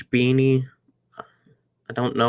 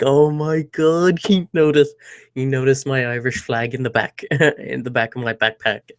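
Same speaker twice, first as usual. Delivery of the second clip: excited inner voice. Retold or imitated. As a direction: replay the moment he noticed, thrilled. Retold excited inner thought.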